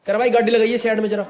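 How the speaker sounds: lightly imitated blunt Haryanvi; Haryanvi accent. Stranger ordering the driver to pull over, in mock Haryanvi. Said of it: "एकदम खड़ी हरियाणी में बोला".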